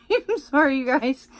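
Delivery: giggling while apologizing; laughing apology. Real, not acted. Apologizing to viewers for her squeal, laughing.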